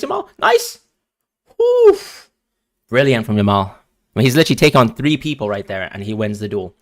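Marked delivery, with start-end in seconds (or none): 0.0-2.3 squealing high, loud woof; high-pitched cheer then a loud woof; excited yelp. Real, not acted. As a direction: yelp with delight at the play. Cheering a great play.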